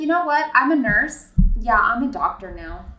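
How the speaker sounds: high, loud smug mock; mocking boast. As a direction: brag it like a smug fraud.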